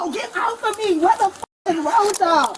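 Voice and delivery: yelling. Real, not acted. Woman resisting arrest, struggling.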